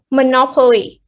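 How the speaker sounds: monopoly stressed on NOP; mo-NOP-oly, second syllable strongest; stress before the ending. Shown as a demonstration. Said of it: "will fall on the first syllable".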